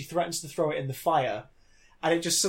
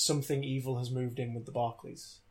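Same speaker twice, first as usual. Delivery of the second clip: trailer voice; 3 semitones lower, 5 dB quieter than usual. Retold or imitated. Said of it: "the tagline was".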